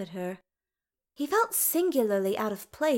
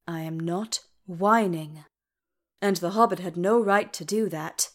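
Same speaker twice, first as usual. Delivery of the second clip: sulky dwarf king; 2 semitones lower than usual. Acted. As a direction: sulk like a wounded king. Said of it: "Do stop whining".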